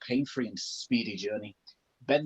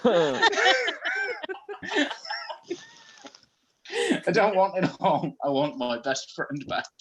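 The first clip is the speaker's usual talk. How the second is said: desperate plea; 10 semitones higher than usual. Acted. Character pleads for friend.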